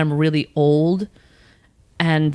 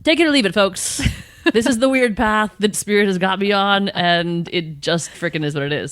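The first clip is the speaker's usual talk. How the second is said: mock shrug; 2 semitones higher than usual. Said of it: "then you're like".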